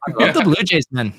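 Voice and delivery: badly faked Canadian accent; attempted Canadian accent. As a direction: have a clumsy go at sounding Canadian. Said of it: "take another stab at the accent".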